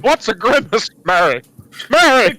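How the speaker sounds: lightly hammed-up pleading in character; Jimmy Stewart. Jimmy calling on Mary for help, mock desperate. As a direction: call out, rising to a mock cry. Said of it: "I'm Jimmy Stewart".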